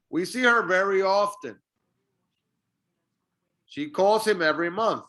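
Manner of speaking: "him" and "her" reduced, with their H nearly silent; repeat-after-me model linking "him" and "her" to the word before; linked, H dropped. Shown as a demonstration. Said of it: "practice repeating these sentences".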